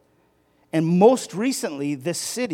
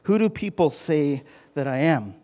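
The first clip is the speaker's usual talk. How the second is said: loud questioning; 7 dB louder than usual. Acted. Jesus asks disciples, voiced loudly.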